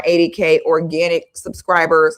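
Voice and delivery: "organic" set apart with light emphasis; stress on organic. Real, not acted. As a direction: lean a little on the word "organic". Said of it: "Emphasis on organic".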